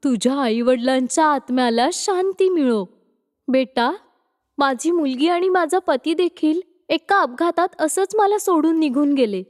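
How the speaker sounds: lightly voiced motherly comfort; understanding. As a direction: console gently, with sympathy. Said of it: "समजून घेऊन ती बोलते".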